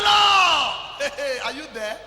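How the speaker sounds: high, loud mock cry to the Lord; mock desperate prayer. Preacher imitating a worshipper crying out to God. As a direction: call out to the Lord like a desperate believer. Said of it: "When you start saying".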